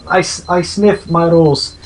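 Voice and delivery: a slow, clumsy attempt at a Finnish accent; failed Finnish accent. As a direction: botch a Finnish accent on purpose, slowly. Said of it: "That is apparently the Finnish accent".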